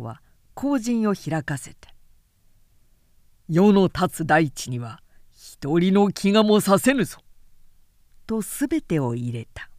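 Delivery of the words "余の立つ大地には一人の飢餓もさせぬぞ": commanding lord. Acted. Cao Cao proclaims to refugees.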